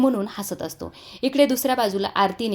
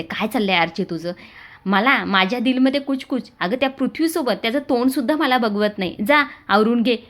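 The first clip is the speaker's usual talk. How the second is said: louder, snapping back at a silly tease; a touch of real annoyance; irritated; 3 semitones higher, 4 dB louder than usual. Acted. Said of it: "आरती चिडते". (चिडून, थोड्या मोठ्या आवाजात)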